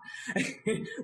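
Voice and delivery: breathy giggle breaking out; real laugh. Real, not acted. Laughter teacher cracks up at her own fake laugh, a real giggle. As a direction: genuine laugh after faking one. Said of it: "which always makes me really laugh".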